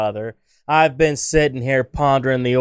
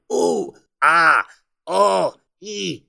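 mimicked death groans; 4 semitones higher, much slower than usual. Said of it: "he starts to mimic out".

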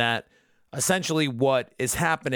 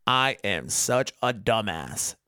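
slow, straight-faced delivery; imitated matter-of-fact self-reproach; deadpan; 3 semitones lower, slower than usual. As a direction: deliver it completely straight, word by word. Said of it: "delivers this line so straight".

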